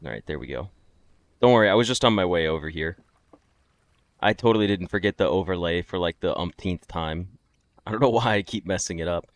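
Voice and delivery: upbeat fresh-start YouTuber intro. Pretend. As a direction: pretend to start the video fresh. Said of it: "The YouTuber voice shift".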